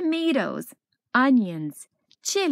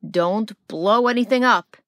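warning father; 7 dB louder than usual. Acted. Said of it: "his father warned".

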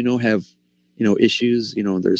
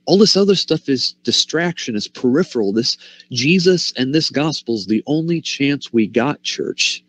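passionate plea; 4 semitones higher than usual. Retold or imitated. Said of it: "he's so passionate because he's saying".

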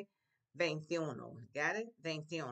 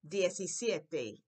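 Diecisiete drawn out slowly; Diecisiete, slow and clear for repeating; slow model; 4 dB louder, much slower than usual. Shown as a demonstration. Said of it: "teacher models word".

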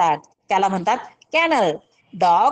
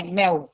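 soft meow; 4 semitones lower than usual. Shown as a demonstration. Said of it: "अशा पद्धतीचा आवाज मांजरीचा".

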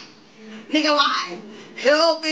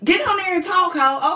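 Beatrice alter ego; 3 semitones higher than usual. Acted. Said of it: "Beatrice took over my motherfucking body".

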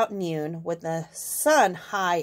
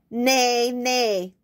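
whining horse; 2 semitones higher than usual. Acted. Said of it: "whined the horse".

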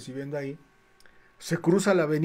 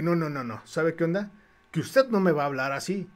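steady, level throw-back of his words; firm defiant echo. Retold or imitated. Painter turning the gym owner's words back, firm and defiant. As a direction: hand his threat right back, unmoved. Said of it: "como me puse altanero".

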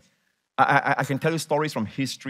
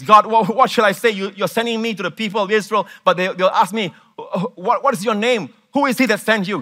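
higher, louder anxious pleading; lightly voiced worried Moses; 8 semitones higher, 6 dB louder than usual. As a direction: plead with God, half-sung.

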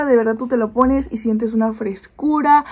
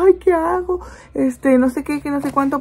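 higher, worried mock panic; mock anguish; 4 semitones higher than usual. Mother retelling panic over her sick son, mock anguished. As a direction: replay the frantic moment, half-playful. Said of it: "Y yo así toda angustiada".

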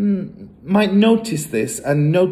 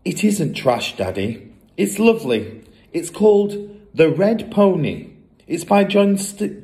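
put-on higher, earnest girlish voice; little girl pleading; 5 semitones higher than usual. Matilda defends her book to her father, high and earnest. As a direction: sweetly insist the book is lovely. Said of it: "Matilda defends her book".

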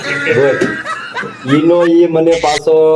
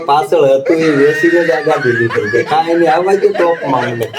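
shouted through laughter; laughing punchline. Retold or imitated. Teller tells the friend's car punchline to the listener, laughing.

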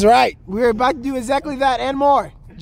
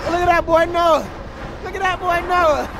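excited; 5 semitones higher than usual. Real, not acted. Cheering rider on.

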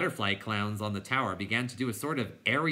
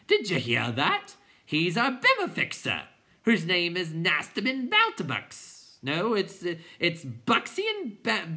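high, loud garbled-name squabble; excited clowns shouting; 9 semitones higher, 5 dB louder, slower than usual. A narrator's reading. Clowns shouting into one another's ears, high excited squawks. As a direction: squawk mangled names over each other. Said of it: "shouting in one another's ears".

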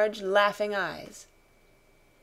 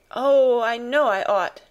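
loud, higher, anguished outburst; distressed cry; 3 semitones higher, 7 dB louder than usual. A narrator's reading. Mother admitting she should have left, crying out. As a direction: cry out loudly in regret. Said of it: "she cried".

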